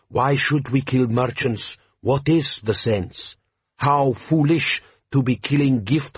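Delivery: put-on slow, heavy-accented bandit chief; lightly voiced warlord, measured and proud; Jabbar, desert chieftain. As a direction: lean into a slow Klatchian drawl. Jabbar speaking.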